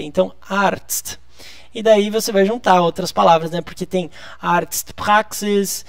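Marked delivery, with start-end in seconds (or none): 0.5-1.2 Arzt slowly, with the Z read as T-S-T; careful, slow model of Arzt; pronunciation demo. Shown as a demonstration. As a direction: say Arzt with a crisp tst ending. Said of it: "leia como se fosse T S T".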